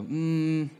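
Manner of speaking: drawn-out balking "mm"; held, hesitant child's hum; reluctant hum. Retold or imitated. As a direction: imitate a toddler's long doubtful hum. Toddler balking at the jump.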